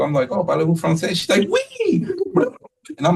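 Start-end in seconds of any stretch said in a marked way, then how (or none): 0.3-1.1 bright, louder mock French; playful French question. Speaker trying French on lady. 1.5-2.1 very high little oui; high squeaky oui. Retold or imitated. Lady answers yes in French.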